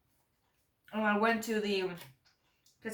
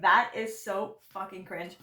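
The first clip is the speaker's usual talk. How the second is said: cringing disgust; slower than usual. Retold or imitated. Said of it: "And I was like".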